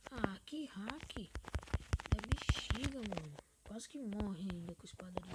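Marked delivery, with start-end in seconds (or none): 0.1-3.4 exasperated. Real, not acted. After surviving a hacker.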